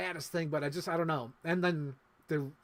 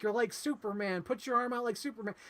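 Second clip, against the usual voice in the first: playful urging; 7 semitones higher than usual. Retold or imitated. Voicing the characters playing at flying.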